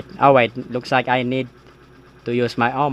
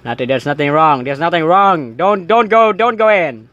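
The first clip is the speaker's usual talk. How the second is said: panicked; 4 semitones higher, 5 dB louder than usual. Acted. Panicked denial, blocking bathroom.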